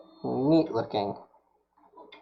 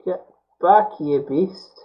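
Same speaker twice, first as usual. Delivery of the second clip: louder, higher mock rebuke; mock scolding; 5 semitones higher, 5 dB louder, slower than usual. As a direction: shoo the iron like a beast. Scolding the soldering iron.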